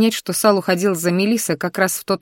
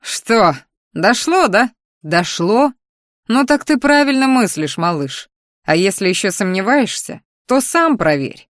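snide mocking voice; 3 semitones higher than usual. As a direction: taunt him like a smug imp. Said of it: "едкий голос внутри".

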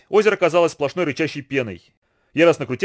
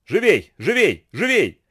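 urgent repeated shout, higher and a bit louder; 5 semitones higher, 3 dB louder, much slower than usual. A narrator's reading. Boatman urging rowers in the storm, urgent shout. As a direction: drive the rowers on with each call. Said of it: "кричал Фануви".

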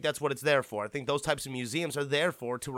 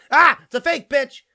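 high, loud mocking jeer; taunting yell of a con man; 9 semitones higher, 13 dB louder than usual. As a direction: shout it in the mark's face like a scam reveal. Mock scene of a faked autograph.

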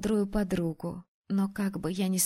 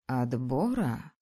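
slow, low dragoness question; drawn-out dragon query; 7 semitones lower, 3 dB quieter, slower than usual. Acted. Dragon Frida asks.

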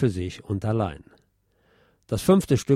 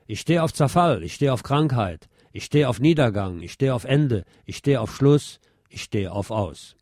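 recited lyrics; 2 semitones higher than usual. Acted. Narrator recites quoted song lyrics.

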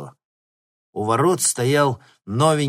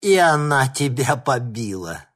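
gasping with laughter; 6 semitones higher, 6 dB louder than usual. A narrator's reading. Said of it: "выдохнул он".

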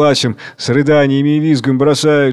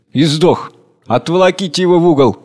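a curt, fast order; gruff chairman; 4 semitones higher than usual. Acted. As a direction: bark it at the servants.

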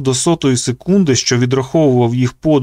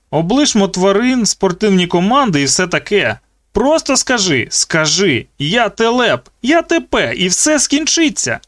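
rising high coaxing taunt; mocking tormentor; 7 semitones higher than usual. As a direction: goad him to give in. Zeke coaxing cruelly.

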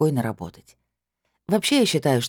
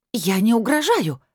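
shrill squeal; 9 semitones higher than usual. A narrator's reading. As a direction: shriek it out, offended. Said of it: "взвизгнула блондинка".

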